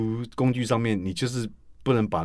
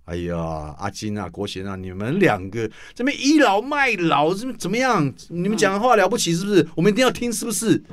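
mocking critics; 7 semitones higher than usual. Imitating critics accusing the veterans of pulling rank, indignant and higher. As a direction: mimic sharp-tongued critics scolding veterans for lording it over them. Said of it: "又怕被人家说".

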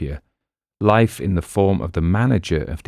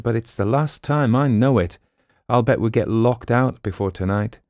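worried sidekick; 5 semitones higher than usual. Acted. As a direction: fret to your friend. Boston frets about eviction.

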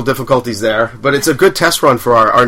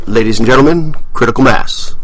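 louder announcer delivery, dropping on the name; announcing an act to the audience; show announcer intro; 3 semitones lower, 3 dB louder than usual. Pretend. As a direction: introduce the segment like an MC. Host's announced intro of the segment.

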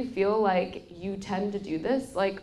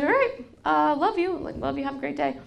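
put-on happy kid voice; 8 semitones higher, 4 dB louder than usual. Son cheered up, voiced by mom.

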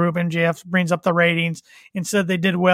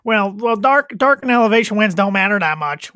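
internet troll voice; 3 semitones higher, 4 dB louder than usual. Pretend. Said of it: "fan trolling voice from now on".

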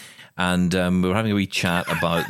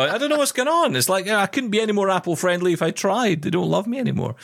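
mock hurt; 11 semitones higher than usual. Mock complaint about Apple.

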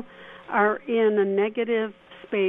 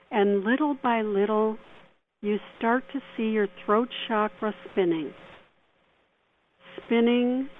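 guided meditation. Acted. Leads a mini meditation.

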